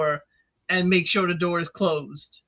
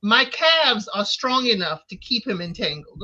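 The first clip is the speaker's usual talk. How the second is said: mock smug; 3 semitones higher than usual. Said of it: "she's like".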